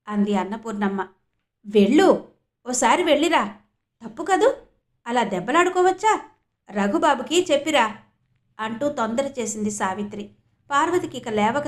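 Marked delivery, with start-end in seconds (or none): 1.7-8.0 urging mother. Acted.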